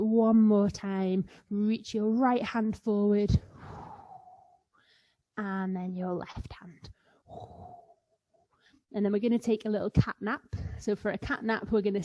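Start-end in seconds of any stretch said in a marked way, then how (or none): 5.4-6.9 softer whisper. Shown as a demonstration. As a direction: hush it down gently. Calm yoga cue, whispered.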